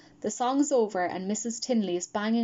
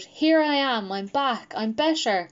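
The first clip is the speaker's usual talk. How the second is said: imagined shout; 3 semitones higher, 3 dB louder than usual. Pretend.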